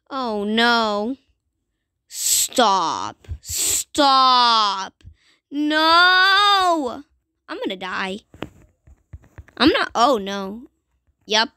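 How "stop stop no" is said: desperate cries to stop; scared pleading. Real, not acted. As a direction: plead in panic. Zombies attacking him.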